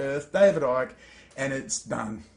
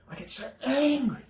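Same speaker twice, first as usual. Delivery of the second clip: much higher, strained, softer; strained exasperation; 7 semitones higher, 4 dB quieter than usual. Real, not acted. Venting his real anger to viewers, strained and much higher. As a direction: let the anger squeeze the voice up high.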